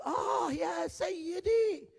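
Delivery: slow, loud high cry. Retold or imitated. Preacher reading the man's cry to Elisha, slow loud wail. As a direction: draw out the cry of alarm. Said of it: "فصرخ".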